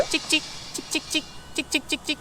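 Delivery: high, soft squeaking; mouse squeak. Retold or imitated. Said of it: "in Korean".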